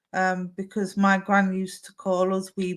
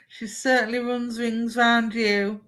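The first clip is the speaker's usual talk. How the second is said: slowed, words carried on a laugh; laughing through it; 3 semitones higher than usual. Real, not acted. Medium teasing the sitter about her toddler, laughing. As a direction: say it while still laughing. Laughing while passing message.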